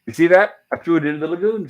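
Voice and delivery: lightly acted, pitch lifted with excitement; excited. Gilligan boasting about his throw into the lagoon, mildly excited. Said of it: "he's all excited".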